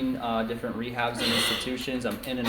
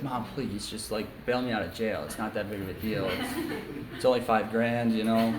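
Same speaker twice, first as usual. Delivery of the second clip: mock begging. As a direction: coax it out, half laughing. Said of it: "beg her".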